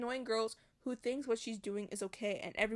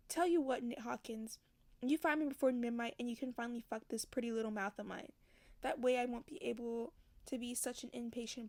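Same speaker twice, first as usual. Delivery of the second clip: story narration. A narrator's reading. Reads novel passage aloud.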